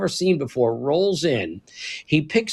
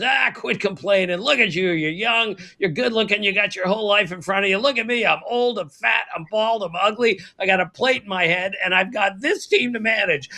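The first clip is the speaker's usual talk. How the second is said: Don Zimmer; 4 semitones higher than usual. Retold or imitated. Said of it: "does that not sound like Don Zimmer".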